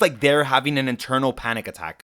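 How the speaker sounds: ordinary delivery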